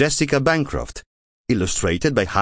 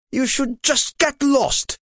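very high, slow, spiteful sibling voice; a sibling telling Wilma to get lost, high and slow; sibling sneering. A narrator's reading. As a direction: drag it out cruelly. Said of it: "said one of i suoi fratelli".

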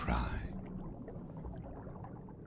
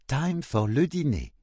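mother calling to dinner; 11 semitones higher, 4 dB louder than usual. Acted. Maman calls Wilma to dinner.

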